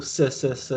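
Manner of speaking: "s, s, s" as Chinese syllables with plain s for sh. Retold or imitated. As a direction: say "s, s, s" as "suh", never "shuh". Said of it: "don't pronounce the sh sound properly".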